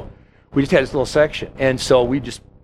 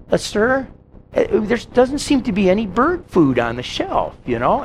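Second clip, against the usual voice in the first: put-on a touch higher, hesitant little old lady; lightly voiced old lady; 5 semitones higher than usual. Grocery clerk retelling the old lady customer, lightly voiced and hesitant.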